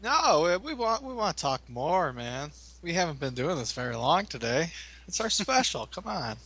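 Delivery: high, swooping mock plea; half-joking, high-pitched protest; possibly sarcastic. Real, not acted. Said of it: "can't tell if you're being sarcastic".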